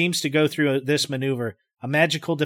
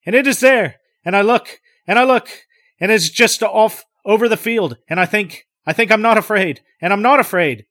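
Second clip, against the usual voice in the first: high, loud, trembling denial of fear; terrified but insisting he is calm; frightened voice telling himself he is not afraid; quiet terror; 7 semitones higher, 8 dB louder than usual. Acted. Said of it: "Now with quiet terror".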